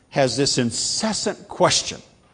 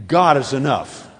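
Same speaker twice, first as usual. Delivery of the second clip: louder, fuller affirmation; more enthusiastic; 2 semitones higher, 6 dB louder than usual. Shown as a demonstration. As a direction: say it like you mean it. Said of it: "a little more enthusiastic".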